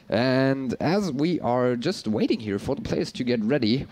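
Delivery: ordinary talk, nothing marked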